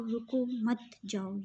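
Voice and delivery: slow "रुको", pause, then "मत जाओ"; slowly, setting रुको apart from मत जाओ; pause after रुको. Shown as a demonstration. Teacher showing it means stop, don't go, pause after रुको. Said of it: "यानी कि रुक जाओ, जाना नहीं है".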